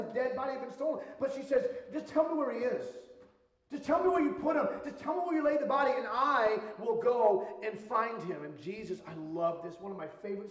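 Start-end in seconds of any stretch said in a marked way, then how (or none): 1.9-8.4 pleading, raised voice. Acted. Mary begs the gardener to tell her, in a raised pleading voice. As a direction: beg to be told where he is.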